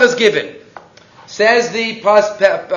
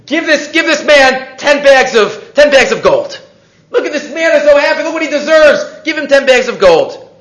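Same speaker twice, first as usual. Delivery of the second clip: delighted king's order; 5 semitones higher, 4 dB louder than usual. Acted. King orders servants to reward.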